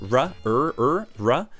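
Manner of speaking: r, er stretched rhotic American R; rhotic R sound. Shown as a demonstration. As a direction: growl out a rhotic r, er. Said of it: "the rhotic sound, the r".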